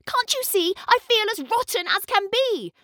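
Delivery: high, put-on girl's voice, sulking; whiny complaint.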